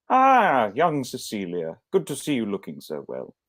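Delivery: a hint of a stern older matron, warmly calling out; matronly greeting. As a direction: play the staunch old suffragette welcoming her. GM voices Mrs Dunham greeting.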